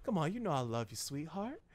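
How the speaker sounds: soft mock-affectionate coaxing; creepy sweet-talk. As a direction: croon it quietly, too fondly.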